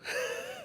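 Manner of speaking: quiet laugh; soft chuckle to oneself. Real, not acted. Streamer after own impression, quiet laughing.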